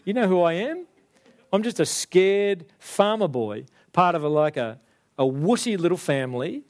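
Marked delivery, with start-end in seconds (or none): 0.0-3.7 incredulous. Acted. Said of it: "Gideon's response is".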